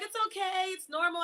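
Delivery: lightly acted reassurance; gently reassuring. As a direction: retell an instructor comforting someone in tears. Instructor comforting her as she cries.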